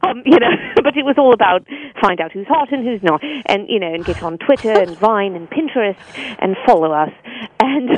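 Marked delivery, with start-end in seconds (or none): 2.0-3.2 haughty British commercial read; snotty British. Shown as a demonstration. Voice actor repeating her MTV tagline, snotty British. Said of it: "this kind of snotty British". 4.0-7.1 snooty British voiceover read; haughty British accent for an ad; snotty British. Shown as a demonstration. Voice actor finishing the MTV ad, snotty British. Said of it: "this kind of snotty British".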